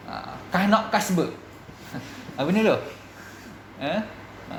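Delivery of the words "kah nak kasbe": Lipis dialect. Shown as a demonstration. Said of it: "orang Lepih ni cakap laju".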